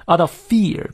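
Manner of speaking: "fear" stressed after a light "out of". Shown as a demonstration. Teacher marking sentence stress, "fear" stressed. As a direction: lean hard on "fear". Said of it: "重读，disguised重读".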